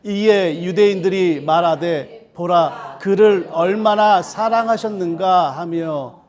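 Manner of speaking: measured, solemn reading of scripture; slow scripture reading. Acted. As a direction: read the passage aloud slowly and deliberately. Congregation reads scripture aloud.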